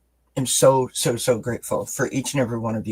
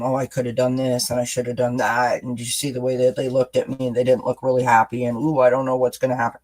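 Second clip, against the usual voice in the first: anxious rehashing; faster than usual. Retold or imitated. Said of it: "rehashing it and".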